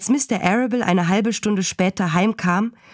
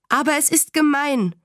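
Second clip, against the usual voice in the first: put-on high, indignant child's protest; mildly acted cry of unfairness, not truly shouted; protestierender Aufschrei; 7 semitones higher than usual. A narrator's reading. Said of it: "schrie Fern". (kindlich empört aufbegehren)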